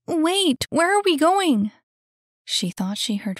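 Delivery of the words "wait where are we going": high, loud startled question; alarmed protest. Acted. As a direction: call out while being dragged along. Annie yanked into running.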